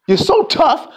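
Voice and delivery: mock him, lean on "so". Shown as a demonstration.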